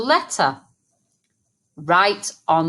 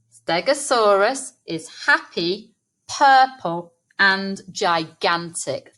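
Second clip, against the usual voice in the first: slow dictation. Shown as a demonstration. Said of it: "we are going to write".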